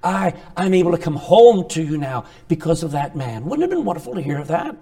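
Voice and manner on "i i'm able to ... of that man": humble sincere confession. Retold or imitated.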